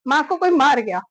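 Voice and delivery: half-relived alarmed shout; retold shout. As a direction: re-enact yelling for Papa in alarm. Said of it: "पापा को आवाज दे के जोर से चिल्ला के".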